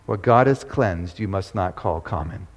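preacher echoes the verse to the congregation, low and soft; soft repeat. Real, not acted.

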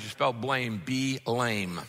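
"B-lame" split as B then lame; "B-lame", letter B then the word lame; spelled out B-lame. Shown as a demonstration. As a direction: spell "blame" as "B-lame", pausing after B. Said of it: "you've heard me say".

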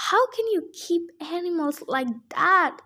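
cried out. Acted. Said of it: "Grover cried".

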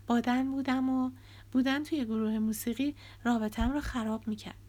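mild defensive pleading; Nora defending herself. Acted. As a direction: justify yourself, hurt.

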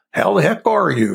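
a hint of a pompous puppet king; King Friday voice. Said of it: "and King Friday and all this".

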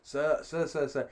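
lightly voiced Indian train guard; placating guard with a hint of Indian accent. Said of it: "Indian guy trying to calm me down".

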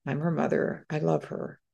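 quiet words to herself, calming down; a gentle murmur to steady herself; soft inner reassurance. Retold or imitated. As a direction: hush it like a private vow. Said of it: "I went in my heart, I said".

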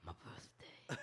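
very low, hushed echo of an impression; Christopher Walken. Friend copying the impersonation, low and quiet. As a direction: drop right down for a soft punchline. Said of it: "he goes low".

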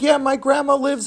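hint of a kid improvising; fibbing boy. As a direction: bluff along in a child's high voice.

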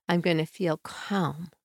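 calm. Shown as a demonstration. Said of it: "you're gonna imagine your emotion".

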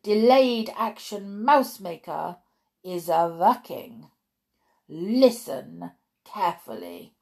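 put-on accented, commanding witch lecturer; deliberate lecture in a foreign-accented witch voice. Witch instructing her audience of witches, commanding accented voice.

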